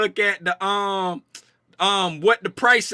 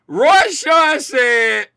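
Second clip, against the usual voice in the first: slow announcer call; 4 semitones higher, 5 dB louder, much slower than usual. Real, not acted. Announcing the viewer's question.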